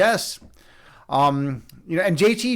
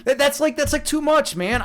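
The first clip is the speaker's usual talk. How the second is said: laughing through the words, higher; 7 semitones higher than usual. Real, not acted. Streamer laughing at a chat comment, laughing. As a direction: giggle it out, amused and embarrassed.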